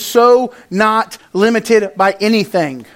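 mock Valley girl emphasis on "so"; lightly put-on Valley girl drawn-out "so". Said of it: "It's my Valley girl".

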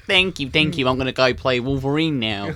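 mock Hugh Jackman with a terrible Australian twang; clumsy Australian accent impression; bad Hugh Jackman Australian accent. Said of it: "That's a terrible Australian accent".

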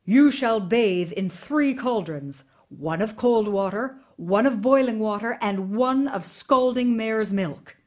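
ordering. Acted. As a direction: lay down the sentence like a cold king. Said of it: "the Tsar ordered".

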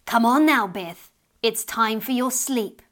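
lightly voiced firm mother; mother calling child to bed. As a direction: call the child in from across the room.

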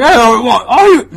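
high, loud old-lady impression that falls apart. Comedian botching the old lady's line, old lady voice. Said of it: "I can't do the voice now".

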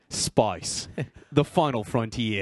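slow Australian accent, "Spice" stretched. Shown as a demonstration. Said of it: "in an Australian accent".

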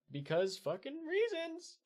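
very high, drawn-out sarcastic delivery; exaggerated high-pitched sarcasm; mock justification. Real, not acted. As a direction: stretch it out way up high, mocking. Mocking an unexplained plot point.

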